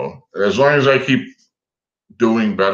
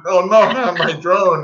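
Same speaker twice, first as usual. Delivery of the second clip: high, drawn-out wail of dismay; mock panic; 10 semitones higher, 4 dB louder, slower than usual. Pilot retelling hawk grabbing the drone, high mock-panicked wail. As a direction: wail it slowly, pitched way up.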